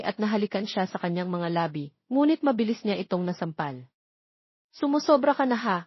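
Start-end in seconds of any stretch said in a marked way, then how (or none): 4.7-5.8 snapping. A narrator's reading. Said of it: "singhal niya".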